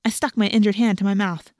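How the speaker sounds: usual speaking voice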